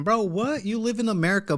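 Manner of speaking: high, disbelieving bro what; incredulous. Real, not acted. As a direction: react in total disbelief. Incredulous reaction to quote.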